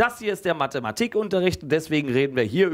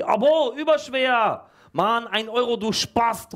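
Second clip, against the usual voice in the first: put-on girl calling out; 9 semitones higher than usual. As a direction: snap it out like a mocking schoolgirl. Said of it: "ruft ein Mädchen aus der letzten Reihe".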